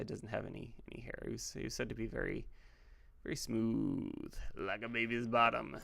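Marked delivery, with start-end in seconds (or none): 3.2-5.8 slow, stretched "smooth"; odd drawn-out delivery. Real, not acted. Describing clean-shaven Jacob, oddly drawn out. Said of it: "I don't know why I said it like that".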